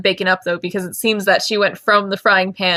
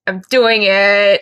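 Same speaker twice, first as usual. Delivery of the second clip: slow determined; 6 dB louder, much slower than usual. Real, not acted.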